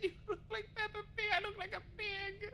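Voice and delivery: laughing tears in the voice; breaking up with laughter; hysterical laugh. Real, not acted. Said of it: "Why are you laughing so hard?".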